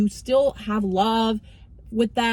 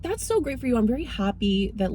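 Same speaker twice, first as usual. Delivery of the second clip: sugary mock praise; 4 semitones higher than usual. Sarcastic reply to friends' dream.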